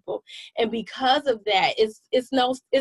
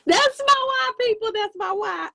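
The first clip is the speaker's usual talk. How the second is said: playful echo; 11 semitones higher than usual. Retold or imitated. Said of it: "that keeps me going".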